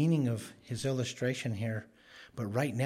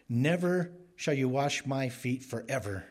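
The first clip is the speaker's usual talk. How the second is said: mildly forceful quoted refusal, weight on "Never"; emphatic refusal; 2 semitones higher than usual. Retold or imitated. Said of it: "It's emphatic".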